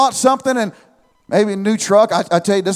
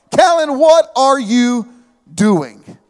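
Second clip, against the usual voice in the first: 1 calling his son; 3 semitones higher, 3 dB louder, slower than usual. Retold or imitated. Dad calling his son again.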